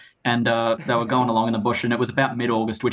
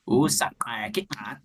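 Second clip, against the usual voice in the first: click demo; 3 dB quieter than usual. Shown as a demonstration. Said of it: "Please teach me to do that".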